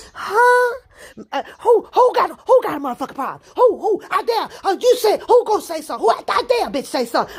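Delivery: high, loud, rapid challenge; acted-out belligerent outburst; mock confrontation. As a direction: call them out, daring anyone to answer. Acts out challenging the group.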